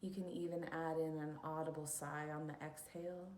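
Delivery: unhurried instructions for settling into stillness; guided meditation. Acted. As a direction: lead listeners into calm, leaving long pauses.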